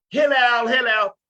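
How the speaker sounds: high, loud holler; mock yell to summon someone; imitated calling out. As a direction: shout the name as if through a door. Retold man calling Hillel out again.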